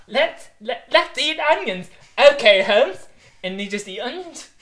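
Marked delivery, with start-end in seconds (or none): 0.1-3.0 a higher, louder hammed-up Holmes line; mock Sherlock Holmes. Retelling the film, mocking Holmes as he suggests onions. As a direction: ham up the detective proposing onions. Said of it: "Sherlock Holmes goes like that".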